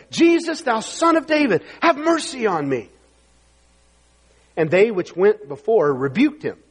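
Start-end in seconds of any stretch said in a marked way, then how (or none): 0.1-2.9 high-pitched plea read aloud; crying out. Acted. Blind man calling to Jesus, crying out. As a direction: call up for mercy, easing at the end. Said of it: "And he cried, saying".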